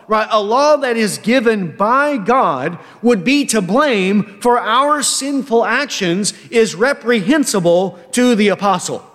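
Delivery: usual speaking voice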